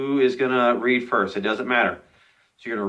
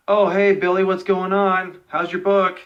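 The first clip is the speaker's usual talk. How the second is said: high, loud call across the room; 8 semitones higher, 3 dB louder than usual. Retold or imitated. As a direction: shout cheerily to a friend far off. Acting student calling across room.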